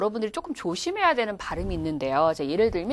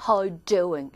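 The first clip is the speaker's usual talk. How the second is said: understated British "How doing?"; British accent; 3 semitones lower than usual. Shown as a demonstration. Teacher showing less ticklish British greeting, British accent. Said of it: "좀 간질간질 거리는 게 없어서".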